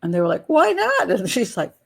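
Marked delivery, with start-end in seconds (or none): 0.5-1.1 high surprised mock question; imitating a puzzled couple asking why; puzzled tourists. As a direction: ask it wide-eyed and high. Couple asks innocently.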